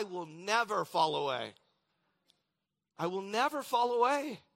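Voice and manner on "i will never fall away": higher, louder restatement of the vow; emphatic vow. Acted. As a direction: repeat it lifted and ringing with resolve. Preacher repeats Peter's vow.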